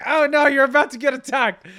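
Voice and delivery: high loud hammed-up panic; mock alarmed warning. Dog owners warning him, hammed-up alarmed shout. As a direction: warn him like a nervous bystander. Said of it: "And they're like".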